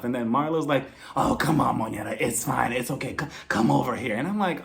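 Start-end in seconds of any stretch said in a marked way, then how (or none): 1.2-4.2 lower, softened mock-soothing imitation; fake comforting. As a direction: imitate phony tenderness. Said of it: "Oh, Marlo, so fake".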